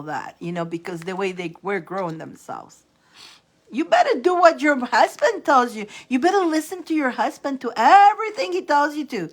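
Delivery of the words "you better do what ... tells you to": put-on older Italian elder lecturing. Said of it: "That's how the older Italian people talk".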